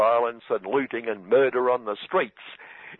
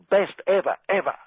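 Donald Trump impression; 6 semitones higher than usual. Satirist mocking Donald boasting about the vaccine, hammed-up brag. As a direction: brag like a salesman selling the best thing ever. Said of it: "Donald boasted".

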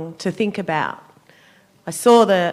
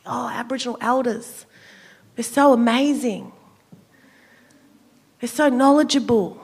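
slightly raised, gushing mock praise; mock admiration; 3 semitones higher than usual. Speaker mimics people praising Aboriginal elders, mock admiration. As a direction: imitate admirers fawning, with sarcasm.

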